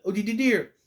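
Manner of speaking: lightly voiced timid Piglet stammer; a hint of Piglet, stuttering dear. Reviewer briefly imitates Piglet's stammer, lightly voiced.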